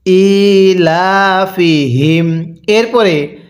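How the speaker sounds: very slow, drawn-out melodic recitation; slow chanted tajweed reading; Quran recitation. Shown as a demonstration. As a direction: recite each syllable long and sung. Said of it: "আমার সাথে পড়ুন".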